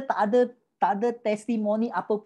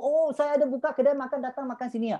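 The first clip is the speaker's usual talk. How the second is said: proud invite; 5 semitones higher than usual. Retold or imitated. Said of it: "You tak nak heboh".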